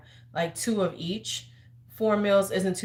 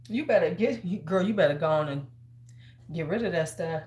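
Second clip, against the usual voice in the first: sassy auntie advice; 3 semitones higher than usual. Acted. Advising a friend about a stye.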